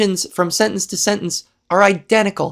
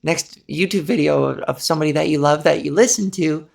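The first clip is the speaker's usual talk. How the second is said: lower-pitched breathy voice; 5 semitones lower than usual. Real, not acted. Speaker hoping they didn't ruin YouTube for listeners, breathy. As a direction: settle down low and let the breath through. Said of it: "I forgot to be breathy".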